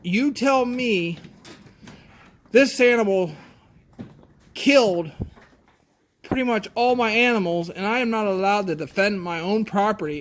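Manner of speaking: furious farmer defending his right to protect his animals; angry yell. Retold or imitated. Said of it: "I yelled at him back".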